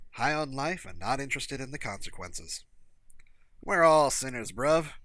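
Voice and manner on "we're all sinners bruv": amicable reply. A narrator's reading.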